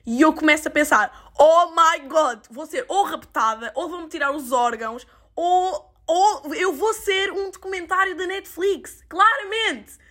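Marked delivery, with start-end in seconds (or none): 1.4-10.0 higher, half-laughing mock panic with a crying edge; laugh-crying mock terror. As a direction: ham up the fear of being kidnapped. Imagined panic about being kidnapped.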